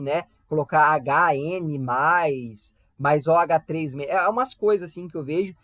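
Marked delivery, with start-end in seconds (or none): 0.5-4.1 slow, lower mock of a student's error; wrong version. Shown as a demonstration. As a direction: show the mistake students make. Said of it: "fazer errado isso daí". (imitando o erro do aluno, devagar)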